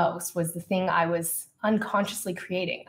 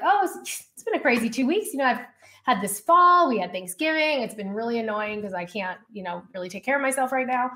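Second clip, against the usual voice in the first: breezy brush-off; 4 semitones higher than usual. Retold or imitated. Retold breezy brush-off to her coach.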